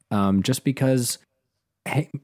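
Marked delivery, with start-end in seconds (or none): 1.8-2.1 throat tightening mid-sentence; choked up. Real, not acted. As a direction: voice catching with emotion. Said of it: "he's getting choked up".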